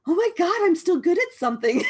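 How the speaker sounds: giddy laughter breaking into the line; laughing joy. Retold or imitated. Retold joy, laughing while painting.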